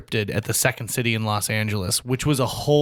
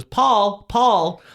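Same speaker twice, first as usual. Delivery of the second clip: higher, louder call across the room; 8 semitones higher, 5 dB louder than usual. Retold or imitated. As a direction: call the name over the crowd. Calling someone across room.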